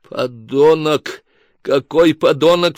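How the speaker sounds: slow, drawn-out indignant cry; outcry. Acted. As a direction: cry out in disgust. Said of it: "вскричала Тамарка". (возмущённый вскрик)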